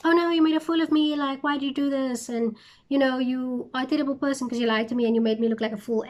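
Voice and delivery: hammed-up scolding as Delilah; mock complaint. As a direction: act out a wounded, over-the-top accusation. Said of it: "she's like".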